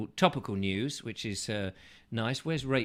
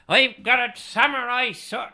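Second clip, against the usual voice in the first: hammed-up Japanese accent, higher and louder; failing at a Japanese accent; mock Japanese accent; 9 semitones higher, 7 dB louder than usual. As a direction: bark it like a cartoon samurai in a bad Japanese accent. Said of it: "It's still not Japanese".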